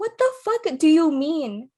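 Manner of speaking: high, loud, drawn-out disbelief; acted-out indignant outburst; indignant comeback. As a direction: throw the question back loudly. Acted quarrel, her indignant reply.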